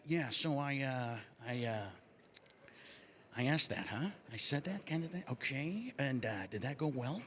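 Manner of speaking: a hint of Charlie Sheen, hesitant and mumbling; lightly voiced confused Sheen; Charlie Sheen impression. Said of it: "He would repeat the question back".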